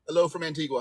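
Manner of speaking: badly faked Caribbean island accent; terrible Antiguan accent. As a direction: attempt a light, clumsy Antiguan lilt. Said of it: "It was a terrible, terrible accent".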